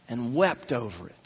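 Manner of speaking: low, soft solemn reading; hushed scripture reading. A narrator's reading. Preacher reading that Jesus wept over the city, hushed. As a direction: let the verse drop low and quiet. Reads verse before repeating it.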